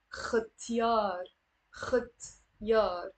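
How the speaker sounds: ختيار with a rasped kh from the throat; kh sound. Shown as a demonstration. Teacher modelling the kh in ختيار for students. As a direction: scrape the kh in ختيار. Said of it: "Pronounce it as a kh".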